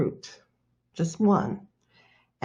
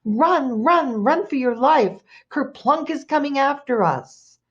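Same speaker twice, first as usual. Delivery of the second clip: high, urgent alarm call; storytelling shout of fleeing animals; panicked shouting; 7 semitones higher than usual. A narrator's reading. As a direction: cry out a frantic warning to everyone. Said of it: "running and shouting".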